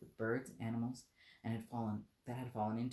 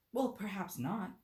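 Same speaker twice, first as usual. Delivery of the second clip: soothing; 8 semitones higher, slower than usual. Acted. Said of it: "said Alice in a soothing tone".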